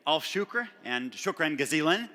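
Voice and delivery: Egyptian Arabic with a hard g in Gazilan; Cairo Arabic pronunciation. Real, not acted. Speaker thanking the audience in Arabic, Cairo pronunciation. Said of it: "I have a good Cairo pronunciation".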